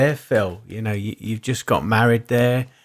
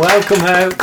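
high welcome; 7 semitones higher, 7 dB louder than usual. Pretend. Hosts welcome guest in high voice.

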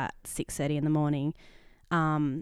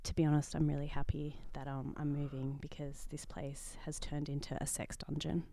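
low hushed confession; 6 dB quieter than usual. Real, not acted. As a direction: keep it quiet, scared they'll hear. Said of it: "Why are you speaking so low today?".

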